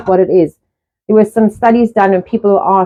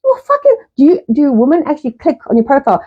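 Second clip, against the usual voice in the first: scornful retort; 4 semitones higher than usual. Retold or imitated. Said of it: "I'm like".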